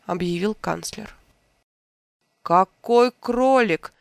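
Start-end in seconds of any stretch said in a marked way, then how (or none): 2.4-3.9 loud, slow, cross demand; angry king. A narrator's reading. King angrily demanding which rabbit won. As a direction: bark the question in annoyance. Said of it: "рассердился король".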